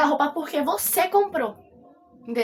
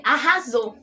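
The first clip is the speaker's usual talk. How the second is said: ironic mock praise; 4 dB louder than usual.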